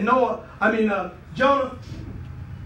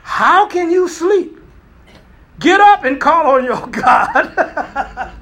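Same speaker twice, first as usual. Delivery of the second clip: slow, loud, high rebuke with a laugh breaking in; captain shouting; 6 semitones higher, 6 dB louder, much slower than usual. Acted. Captain shouting down at sleeping Jonah, slow and loud. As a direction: bellow it down at the sleeping man. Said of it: "The captain went to him and said".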